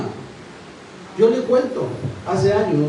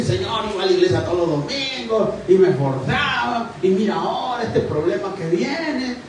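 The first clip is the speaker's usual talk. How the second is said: complaining to God. Retold or imitated. Believer reproaching God over unanswered help, imitated complaint. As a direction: plead a list of grievances, mock-aggrieved. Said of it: "le reclamaba esas cosas que nosotros reclamamos a Dios".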